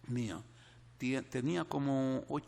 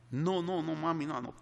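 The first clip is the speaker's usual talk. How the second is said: put-on upset child; 5 semitones higher, 4 dB louder than usual. Sobbing girl answers mother.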